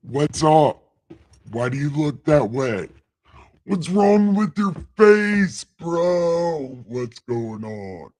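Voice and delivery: God talking like a bro; casual street slang God. Acted.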